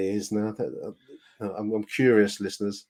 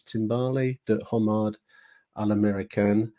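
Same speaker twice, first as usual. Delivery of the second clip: mangled French accent. Shown as a demonstration. Podcast host reading an old dinner menu to listeners, shaky French accent. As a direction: read the French menu like a self-conscious Englishman. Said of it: "my French accent is gonna be suffering".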